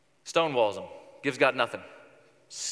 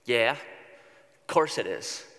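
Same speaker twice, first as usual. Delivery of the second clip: put-on sulky teenager. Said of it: "Sounds like a teenage girl".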